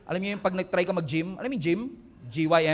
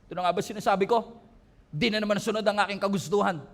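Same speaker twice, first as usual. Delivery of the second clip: a hint of sulky, pouting Jonah, said quick; mock sulking complaint, rattled off fast; lightly played petulant prophet; faster than usual. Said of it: "Kaya nag-pout siya".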